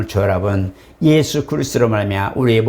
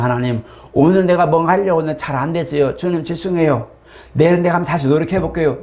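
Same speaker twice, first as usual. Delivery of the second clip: prayer demo; 4 semitones higher than usual. Shown as a demonstration. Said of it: "이게 뭐냐?".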